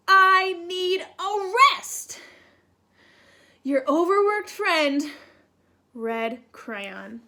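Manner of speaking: lightly voiced weary crayon pleading for rest; tired red crayon. Reads Red Crayon's letter.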